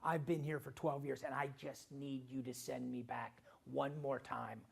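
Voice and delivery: a hint of a stump-speech plea to the voter; mock career politician. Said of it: "I hear 'em talk".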